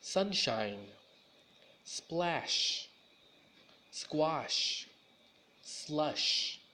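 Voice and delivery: "Sunshine" with a hissed "s" then a hushing "sh"; s and sh contrasted. Shown as a demonstration. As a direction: set the thin "s" against the round "sh" in each word. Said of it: "combine the S and the S H together".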